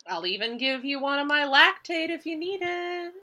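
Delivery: coaxing. Acted. Sunflower coaxing with a bribe.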